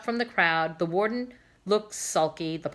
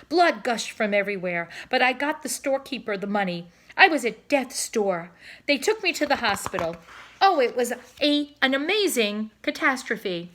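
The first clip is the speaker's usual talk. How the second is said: louder, dramatic storytelling cob; boastful cob swan; 4 semitones higher, 5 dB louder than usual. Acted. Cob boasting to his wife about his trip, louder and hammed-up. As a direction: ham up the tale with a touch of grandeur.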